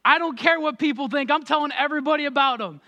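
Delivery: eager, bursting to tell everyone; imitating a new believer's excitement; excited. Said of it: "an excitement and a joy".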